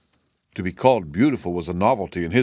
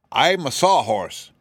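a wooden horse, higher and slow, plainly stating; simple, higher wooden-horse voice; sawhorse voice; 5 semitones higher, 3 dB louder, slower than usual. Acted. Sawhorse answering the startled cab horse, higher and slow.

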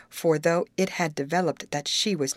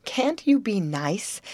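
higher, drawn-out, slow appeal; mild pleading; 5 semitones higher, slower than usual. Acted. Betty appealing to squabbling friends, mildly pleading. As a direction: plead slowly for some peace.

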